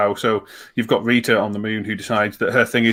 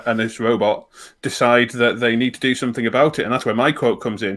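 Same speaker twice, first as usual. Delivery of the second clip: ordinary delivery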